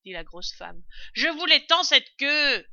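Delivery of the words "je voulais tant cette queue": high, very loud complaint; loud lament. A narrator's reading. Servant wanting the fox's tail, lamenting loudly. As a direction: wail it up the stairs.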